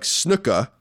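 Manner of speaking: snooka, r dropped, British style; British pronunciation. Retold or imitated. Reading a British listener's letter, snooka without r. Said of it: "like snooka".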